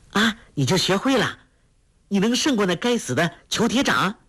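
put-on high, quick overjoyed girl; eager delight. A narrator's reading. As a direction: jump in, thrilled he might win. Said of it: "黄蓉大喜，抢着说道".

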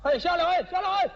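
high-pitched mock shout from a pedicab driver; imitated yelling. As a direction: call out urgently, imitating a street warning. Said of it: "有蹬三轮的冲我嚷".

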